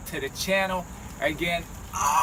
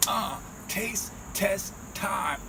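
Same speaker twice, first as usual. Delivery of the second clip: drawn-out announcer catchphrase; 7 dB quieter, much slower than usual. Acted. Catchphrase intro chant.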